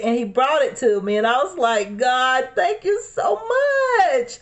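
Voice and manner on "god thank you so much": high, slow, crying thank-you; tearful thanks. Retold or imitated. Thanking the neighbor for the pamphlet, voice cracking with tears. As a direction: choke out the thanks through tears.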